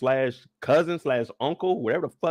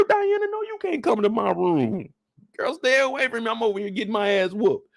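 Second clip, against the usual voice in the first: high scared pleading; 6 semitones higher than usual. Retold or imitated. Pleading with Diana in fear.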